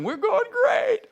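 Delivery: very high confident voice, then a gasp; cheery, then a sudden gasp of doubt; imitated doubter. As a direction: someone starting to doubt halfway.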